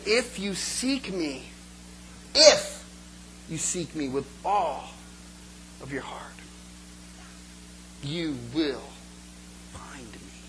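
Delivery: fading to a whisper on find me; voice of God, hushed. Acted. Preacher voicing God's promise, fading to a hush. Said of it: "Because God said".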